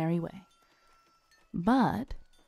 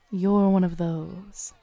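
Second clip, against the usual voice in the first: knowing tease; slower than usual. Acted. Knowing jab at a sceptic.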